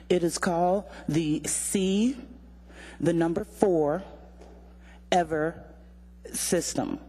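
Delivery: slow dictation of "C, the number four, Ever system", long pause between parts; slowly, spelled out. Shown as a demonstration. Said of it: "say that name more slowly and maybe spell it".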